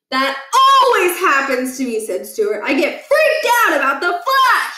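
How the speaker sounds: put-on a jumpy boy explaining the flash; nervous kid. A narrator's reading. Stuart voiced, higher and louder.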